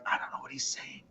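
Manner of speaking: under the breath, voiceless, very soft; whispered confusion at the relatives' Italian; lost mumble. Retold or imitated. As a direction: mutter it to yourself, baffled and a little ashamed. Confused aside about Italian cousins.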